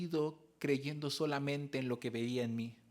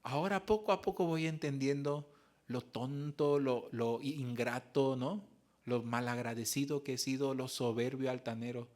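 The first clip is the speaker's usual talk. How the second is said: humble apology; 2 semitones lower than usual. Retold or imitated. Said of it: "Y le decía".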